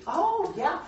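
high, airy mock-interest; mock casual reader. Teacher imitates himself reading over sweet tea, mock casual. Mocks a cosy Bible reader.

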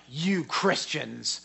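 mildly hostile challenge, imitating a heckler; mock hostile questioning. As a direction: throw it out accusingly, as a retold confrontation. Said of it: "He was, he was hostile".

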